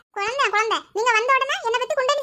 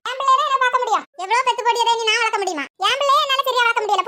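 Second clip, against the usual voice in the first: louder, heated argument; angry retort; 3 dB louder than usual. Acted. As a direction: snap back at the husband. Wife argues with husband. (கணவனிடம் கோபமான வாதம்)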